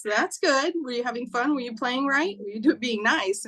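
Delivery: lightly acted motherly praise and questions; motherly encouragement. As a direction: gently check in with a little one. Mother gently questioning little boy.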